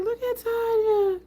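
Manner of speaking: high, drawn-out gushing squeal; proud mama. Retold or imitated. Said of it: "I felt like a proud mama".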